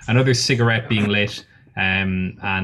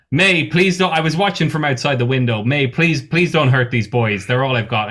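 Confuso pleading; 2 semitones higher than usual. Acted. Confuso begs May not to hurt the boys. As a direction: beg her to spare the boys. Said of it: "and he goes".

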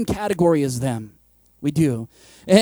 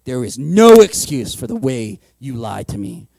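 accusing; 9 semitones lower, 4 dB louder, slower than usual. Retold or imitated. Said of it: "You're like".

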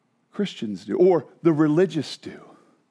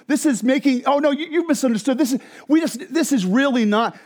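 rationalizing believer; 4 semitones higher than usual. Retold or imitated. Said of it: "this is the next one".

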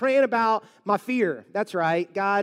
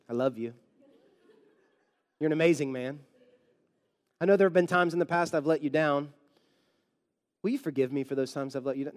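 lower, softer mock-reverent address; mock solemn prayer; 7 semitones lower, 3 dB quieter, faster than usual. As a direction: pour it on like a pious speech. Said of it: "No, I don't do that".

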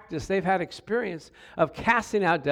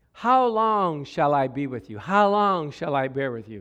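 drawn-out, weary complaint; frustrated; 4 semitones lower than usual. Acted. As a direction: stretch HOW LONG with mounting frustration. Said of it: "a little frustration in that".

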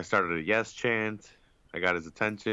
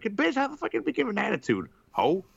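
mock angry yell; 12 semitones higher than usual. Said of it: "they're like".

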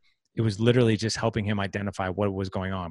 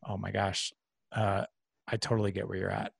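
softer, gentle and understanding; softly voicing real empathy; empathetic response; 4 dB quieter than usual. Shown as a demonstration. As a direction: show them you truly get their pain. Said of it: "if you say something different".

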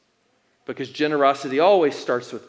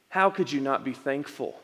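soft, patient and loving; gentle question; 4 dB quieter than usual. Retold or imitated. God gently asking Nick, softly and tenderly. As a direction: ask it tenderly, not scolding. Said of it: "I don't believe Jesus was scolding me".

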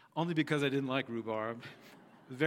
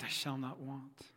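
softer, slower echoed psalm line; 6 dB quieter, slower than usual. Shown as a demonstration. Congregation echoing the pastor's psalm line, soft and slow. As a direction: give it back quietly and slowly. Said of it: "asked them to echo the words back to me".

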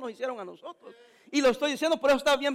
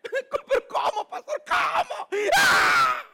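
high, shouted mock outrage; mock shock; 13 semitones higher, 4 dB louder, much slower than usual. The shocked father hears the pastor's harsh advice, high shout. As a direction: gasp it out, scandalized.

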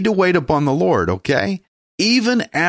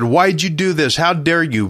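Joab's raised, higher challenge; mock indignant challenge; 4 semitones higher than usual. Joab challenging King David, raised and indignant. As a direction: demand it like an offended general. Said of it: "Joab questioned David".

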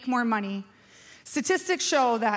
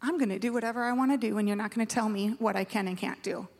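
defiant child imitation; 4 dB quieter, faster than usual. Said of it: "When you're like".

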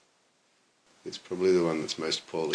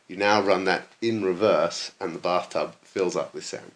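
put-on drunk voice; 2 semitones higher, 5 dB louder than usual. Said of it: "in his drunk voice".

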